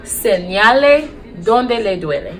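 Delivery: slow, careful Spanish instruction; slow language demo. Shown as a demonstration. Nurse teaching how to have patients point to pain, slow demo. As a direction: model the phrase slowly for learners. Teacher repeats phrase for learners.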